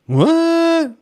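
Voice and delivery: high, sharp startled what; a stunned parent hearing bad news; shocked what. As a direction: react in disbelief, pitch jumping way up. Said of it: "And I'm like".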